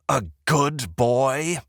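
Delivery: slow scornful snarl. Acted. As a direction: spit it back slowly. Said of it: "I can't help my snarl".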